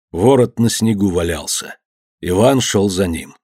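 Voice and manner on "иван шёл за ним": ordinary delivery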